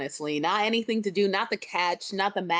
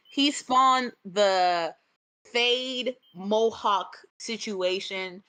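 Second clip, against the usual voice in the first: drawn out, each word weighed; slow emphasis; much slower than usual. Real, not acted. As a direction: spell it out slowly for effect. Slowed dramatic emphasis.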